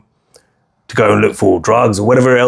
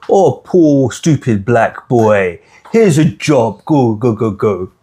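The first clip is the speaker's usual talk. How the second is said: a hint of patronising pity, dragging out stupid slowly; lightly voiced sneering boss, mocking; mock condescending white man; much slower than usual. Mocking how the white man talks down to him, patronising. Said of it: "this is basically what the white man is doing to you".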